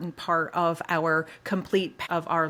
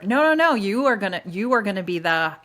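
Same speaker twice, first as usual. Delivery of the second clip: put-on domineering boyfriend; 6 dB louder than usual. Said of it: "boyfriend tells her".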